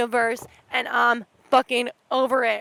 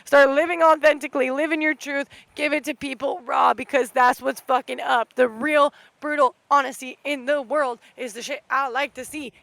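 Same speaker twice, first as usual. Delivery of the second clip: louder, fired-up pep talk; rally them, get them on the wave; genuine hype; 3 dB louder than usual. Retold or imitated. Host hyping listeners to live authentically, louder and fired up. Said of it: "this is me genuinely like".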